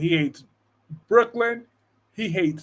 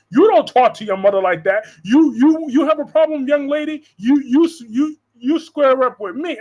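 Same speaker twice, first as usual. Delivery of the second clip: higher, louder mocking old lady; hammed-up scolding matriarch; mocking Gloria; 6 semitones higher, 5 dB louder than usual. Imitating Gloria scolding Tracy, mocking. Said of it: "Talk about".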